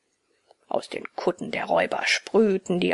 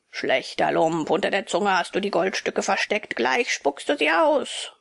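menacing robber; 2 semitones lower than usual. Acted. Robber threatens Bengele.

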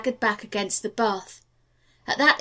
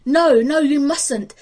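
loud, urgent no, no; urgent plea; 4 semitones higher, 7 dB louder, slower than usual. Acted. John Quincy begging the officer to let him aboard, loud and urgent. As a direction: cry out to stop the gangplank being drawn. Pleading to board the departing ship.

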